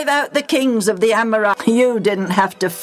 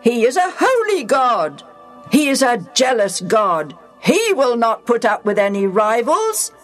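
a mildly raised, emphatic warning; loud, emphatic; 7 semitones higher than usual. Acted. Joshua warning the people, loud and emphatic. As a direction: drive each line home firmly. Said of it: "in a loud, emphatic voice".

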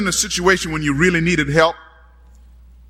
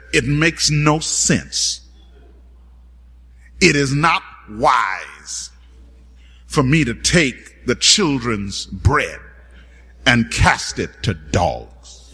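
stern rebuke; 7 semitones lower, slower than usual. Retold or imitated. Jesus' stern rebuke voiced.

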